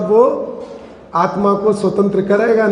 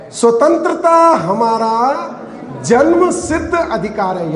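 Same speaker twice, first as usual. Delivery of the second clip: Gandhi. Retold or imitated. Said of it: "Gandhi जी का क्या वाक्य था".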